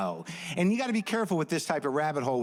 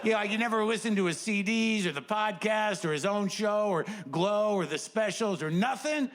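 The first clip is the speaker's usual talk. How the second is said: incredulous fan; 7 semitones higher than usual. Retold or imitated. Fan lists credits to friends.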